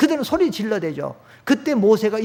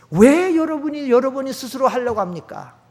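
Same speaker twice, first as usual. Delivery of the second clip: ordinary talk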